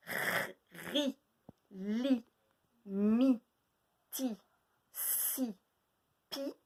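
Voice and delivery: one syllable at a time; syllable drill. Shown as a demonstration. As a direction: sound out each syllable with a pause. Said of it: "Ça se ressemble".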